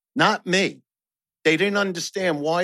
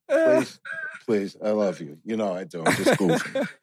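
put-on pleading girlfriend voice; 8 semitones lower than usual.

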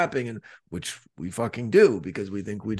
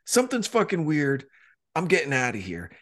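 high, rattled voice of the dog walker; spooked dog walker; 7 semitones higher than usual. Retold or imitated. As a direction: play him nervous and jumpy, pitched up. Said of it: "He goes".

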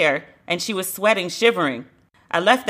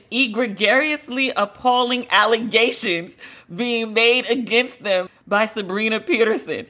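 mocking pompous reading; 2 semitones higher than usual. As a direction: savour each big word like a joke. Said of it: "T I wrote this shit".

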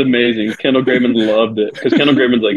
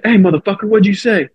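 high-pitched mock challenge; retold confrontation; 10 semitones higher than usual. Pitcher walking out to confront a heckler, mock aggression.

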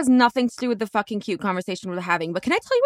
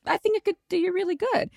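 sweetly sarcastic; 9 semitones higher than usual. Retold or imitated. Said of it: "And I go".

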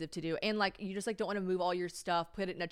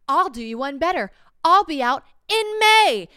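loud, high, overconfident counteroffer; reenacted cocky one-upping, climbing high; overexcited retort; 8 semitones higher, 13 dB louder than usual. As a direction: blurt out the bold offer, building louder. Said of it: "I got a little too excited".

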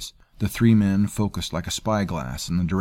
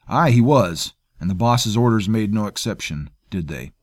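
taunting; 3 semitones higher, 6 dB louder than usual. A narrator's reading. Angry quarrel over the boy.

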